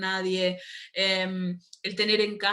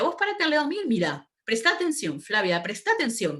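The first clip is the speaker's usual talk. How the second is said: quoting mum; 2 semitones higher than usual. Retold or imitated. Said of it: "Pero ella me decía".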